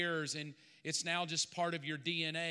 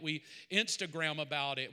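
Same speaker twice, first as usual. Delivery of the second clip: normal talking voice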